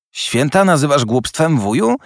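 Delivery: high, amazed question to his uncle; nephew calling out. A narrator's reading. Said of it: "zawołał siostrzeniec". (zdziwione wołanie siostrzeńca, wysoko)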